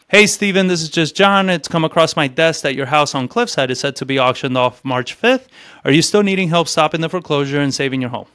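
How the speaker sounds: rushed monotone cold-call read; reading the script like a robot; robotic script read. Shown as a demonstration. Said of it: "Let's do this more robotic, more like most people do it".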